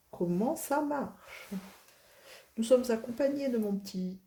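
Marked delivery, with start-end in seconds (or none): 0.1-1.5 "Comment ça marche?" drawn out slowly and higher; slow drawn-out question. Shown as a demonstration.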